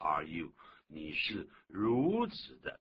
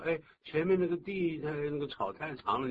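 bossy employer; 8 semitones higher, 4 dB louder than usual. Acted. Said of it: "这个时候老板说".

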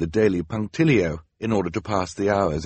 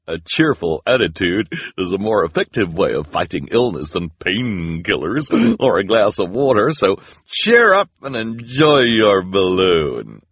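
chirpy volunteer; 5 dB louder than usual. Acted. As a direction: preach cheer with a huge grin. Grinning volunteer lecturing patients.

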